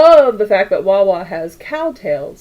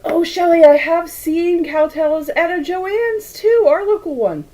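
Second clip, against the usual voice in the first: suppressing hiccups; 9 semitones higher than usual. Real, not acted. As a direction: squeeze the words out while holding back hiccups. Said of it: "I'm gonna hold my breath".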